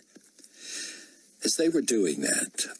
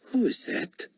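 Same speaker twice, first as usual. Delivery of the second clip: high-pitched, imperious challenge; demanding. A narrator's reading. Potentate challenging an unseen interrupter, high and demanding. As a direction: demand it as an affronted ruler. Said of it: "Carpathia demanded".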